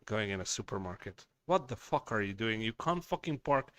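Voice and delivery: normal talking voice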